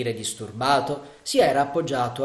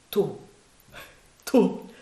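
higher and louder joyful cry; mad with joy; 7 semitones higher, 4 dB louder than usual. Acted. Marianna recognising Sandokan, higher joyful cry. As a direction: cry out in joy at seeing him. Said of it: "esclamò la giovinetta pazza di gioia".

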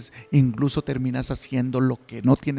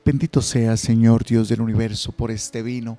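lower, measured priestly prayer; liturgical prayer; 3 semitones lower than usual. Acted. Priest's offertory prayers at Mass.

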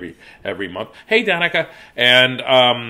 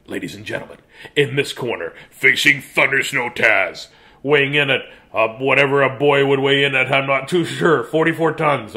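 mock ring announcer.

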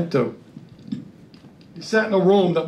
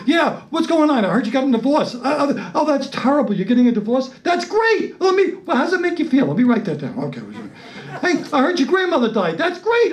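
eager fake sympathy; 5 semitones higher than usual. Fishing friends for bad news.

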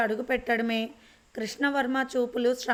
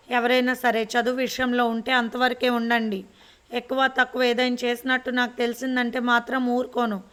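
a firm, raised-voice threat; slightly louder stern warning. Acted. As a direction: grandmother warns the household, voice raised. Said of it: "బిగ్గరగా అరిచి".

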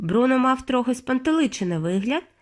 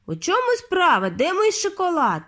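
put-on uneasy boy; 8 semitones higher than usual. A narrator's reading.

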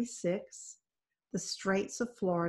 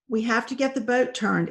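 crying out; 4 semitones higher, 5 dB louder than usual. Acted. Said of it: "Isabel heard Lewis cry".

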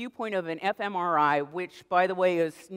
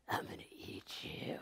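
whispered playful threat to the bacon; breathy menacing whisper, like a child playing monster; kid's monster whisper; 16 dB quieter than usual. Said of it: "suddenly he goes".

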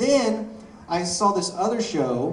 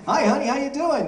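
suave, higher, smooth greeting to the wife; smooth Hughes voice; 11 semitones higher, 4 dB louder than usual. Retold or imitated. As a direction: slide in smooth like a charmer. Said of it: "talking a little bit more smooth".

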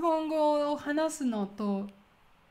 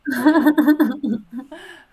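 loud burst of laughter; big rippling laugh; 13 dB louder than usual. Real, not acted. Laughs at partner's remark.

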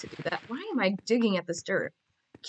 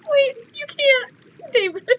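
talking through real laughter, higher and louder; laughing; 11 semitones higher, 5 dB louder than usual. Real, not acted. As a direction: giggle the words out. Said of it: "why I'm laughing".

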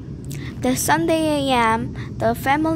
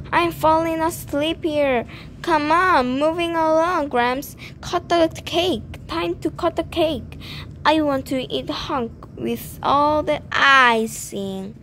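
rude sweet tooth voice; 4 semitones higher than usual. Acted. Tooth heckles the wedding.

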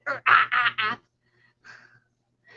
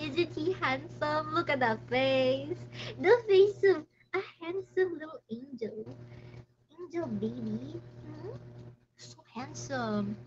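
doting coo; 2 semitones higher, 4 dB quieter than usual. Real, not acted. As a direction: gush softly over the puppy. Cooing over her dog.

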